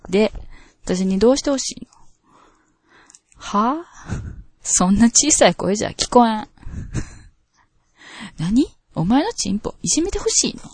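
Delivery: a hint of a bossy Kansai mistress giving orders; sadistic dominatrix. Host reading a listener's requested S-role lines, lightly domineering. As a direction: order him to kneel, mildly domineering. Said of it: "今日はS状鶴子でよろしく".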